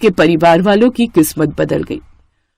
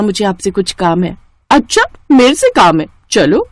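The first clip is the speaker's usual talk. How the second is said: scheming elder sister. Acted. Megha voiced again. (ऊँची, तीखी आवाज़ में ताना मारती बड़ी बहन)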